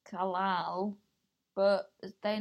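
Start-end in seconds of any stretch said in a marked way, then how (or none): 0.1-1.0 "Kalal" set apart after a careful pause; stop, then place "Kalal" carefully with a clear final L; deliberate pause. Shown as a demonstration. Having to go carefully with the child's name, paused "Kalal". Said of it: "no one else says it with a pause".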